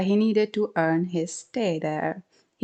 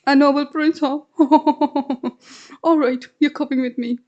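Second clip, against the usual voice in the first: higher, louder amused scoff with a laugh; mocking man; 7 semitones higher, 5 dB louder than usual. Man laughing at the mongoose's claim, amused scoff.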